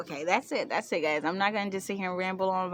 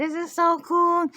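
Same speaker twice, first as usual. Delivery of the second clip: high, loud, drawn-out marvelling; acted delight; 10 semitones higher, 8 dB louder than usual. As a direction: marvel at it, stretching the words. Retells her delight at discovery.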